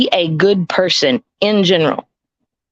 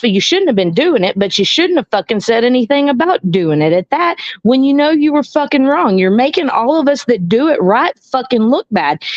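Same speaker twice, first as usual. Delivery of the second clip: heated rant; 5 semitones higher than usual. Real, not acted. Heated rant at online trolls.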